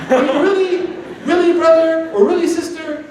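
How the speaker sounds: exasperated disbelief. Acted. Preacher scolding insecure brothers and sisters, exasperated and high.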